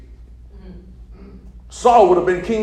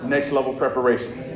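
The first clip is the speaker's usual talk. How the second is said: very slow, drawn-out phrase; slow preaching call for echo; slow call to repeat; 3 semitones lower, slower than usual. Shown as a demonstration. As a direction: lay it down word by word. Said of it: "Lord, say".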